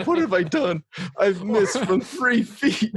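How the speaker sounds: high-pitched mock horror, drawn out at the end; mock dismay. Retelling a botched film shot to friends, mock dismay.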